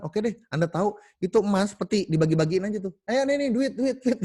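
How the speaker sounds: a rich man showering a town with money; gleeful giving. Acted. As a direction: fling coins to the crowd with glee. Tossing money to townsfolk.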